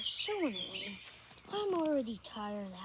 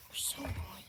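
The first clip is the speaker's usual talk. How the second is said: whisper; 5 semitones lower, 4 dB quieter than usual. Real, not acted. Whispered complaint.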